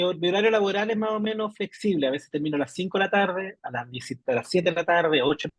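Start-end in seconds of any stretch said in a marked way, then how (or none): 2.1-5.5 choppy breaking-up audio; bad connection. Real, not acted. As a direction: voice cutting in and out. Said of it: "Uy, se escucha entrecortado".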